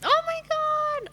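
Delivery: high, drawn-out oh my God; delighted exclamation. Real, not acted. Guest answering host's question about happiness, overjoyed and drawn out. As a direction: gush with joy, stretching it slowly. Asked if she is happy.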